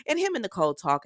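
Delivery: ordinary talk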